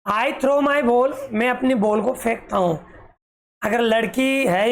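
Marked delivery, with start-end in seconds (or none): 0.1-1.1 very slow word by word reading; slow, clear teacher reading; slow read-aloud. Shown as a demonstration. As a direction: read it out slowly for the class. Teacher reading line slowly.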